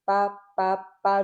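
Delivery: pa with the air held back, no puff; pa, pa, pa, consonant braked and firm. Shown as a demonstration. Teacher showing pa with retained air. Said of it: "je freine l'air".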